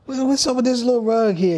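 high-pitched mock dad, baffled and scolding; imitating his dad. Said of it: "he's like".

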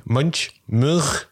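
Munch said first with a hard ch, then with a throaty ending; trying out pronunciations. Shown as a demonstration. Guest unsure how to say the painter's name, trying out pronunciations. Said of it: "how do you say it?".

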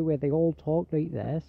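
lightly put-on West Country farmer accent; Gloucestershire farmer's accent. Shown as a demonstration. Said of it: "traditional farmer's accent".

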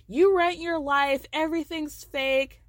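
drawn-out sneering jab; slow cutting insult. Retold or imitated. Angie taunting Meredith, slow and cutting. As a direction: spell out each insult slowly.

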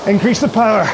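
shouting while rowing hard; straining cues mid-effort; on rowing machine. Real, not acted.

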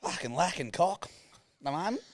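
high-pitched mock confiding; hammed-up moan to mum about a dry spell; imitating co-host. Host mimics co-host confessing the drought to mum, hammed-up high voice. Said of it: "No, you went like this".

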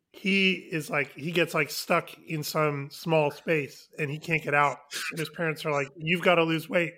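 talking while eating ice cream; words round a mouthful; mouth full. Real, not acted. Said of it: "you can hear the ice cream in, in Dan's mouth".

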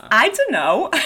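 put-on second go at a New York accent; Dora's line in amateur New York accent; attempted New York accent. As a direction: try the line as a New Yorker. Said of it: "when I can't do the New York accent".

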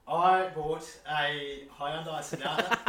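slow, loud projected answer. Shown as a demonstration. Podcaster challenged to sound as loud as his co-host, projecting. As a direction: speak up deliberately, word by slow word. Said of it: "try and speak loud enough".

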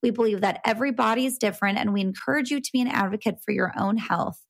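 measured legal-style read; disclaimer read. Acted.

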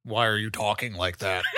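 mock impression of a friend; parroting the line back in a lightly mocking voice; imitating the other player. Teasing the GM by mimicking his delivery. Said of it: "That's what you sound like".

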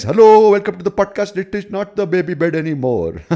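high, loud, squealing host voice; silly podcast welcome voice. Shown as a demonstration. Host welcoming guests to the podcast, silly high greeting. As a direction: hold it high and loud all through. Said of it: "speak to them like this".

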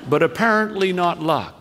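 ordinary delivery

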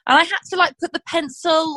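ordinary delivery

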